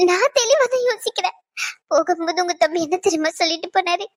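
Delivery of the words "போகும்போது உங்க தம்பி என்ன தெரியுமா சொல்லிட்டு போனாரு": tearful. Acted. Wife tearfully confides about husband.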